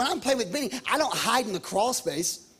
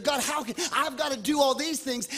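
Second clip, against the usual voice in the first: fervent sermon build with a sung edge; preaching; 3 semitones higher than usual. Acted. Pastor urging the church to keep seeking God. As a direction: preach it, rising with passion.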